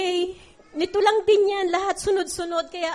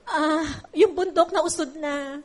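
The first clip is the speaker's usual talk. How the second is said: crying. Real, not acted. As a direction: voice breaking with real tears. Tearful prayer in testimony.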